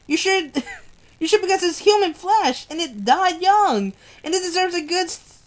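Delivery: feverish, pleading hospital voice; a delirious amputee begging for his ring; wounded soldier rambling. Acted. Wounded soldier asks nurses for his ring, delirious and pleading.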